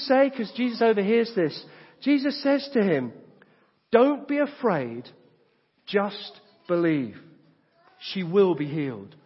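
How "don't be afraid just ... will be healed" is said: gentle reassurance. Retold or imitated. Jesus reassuring the father.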